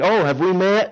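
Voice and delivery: high, loud puzzled ask; surprised have we met; surprised question. Retold or imitated. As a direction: sound caught off guard.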